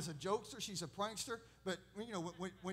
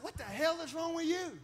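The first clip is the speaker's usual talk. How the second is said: higher, louder yell at the other player; angry yell; 9 semitones higher, 6 dB louder than usual. Retold or imitated. Boy yelling at a football opponent, loud. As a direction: let the cuss fly at him. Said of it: "I said".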